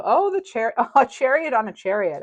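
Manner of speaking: high, loud burst with a laugh; delighted surprise. Real, not acted. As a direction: exclaim in real delight at the find. Delighted reaction to drawing card.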